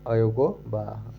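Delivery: teacher drawing out अयोगवाह so the class can follow; slow drawn-out answer. Shown as a demonstration. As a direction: stretch अयोगवाह out slowly, each syllable long. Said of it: "क्या बोलते हैं?".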